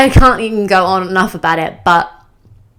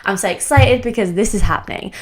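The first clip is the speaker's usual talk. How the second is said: excited; 3 semitones higher than usual. Shown as a demonstration. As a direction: sell the thrill of the journey. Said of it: "your mind thrives on drama and excitement".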